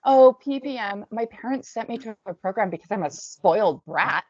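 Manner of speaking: high, loud taunt, easing off after the start; mocking scream. A narrator's reading. Girl taunts the crying newcomer, screaming mockery. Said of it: "By now she's screaming".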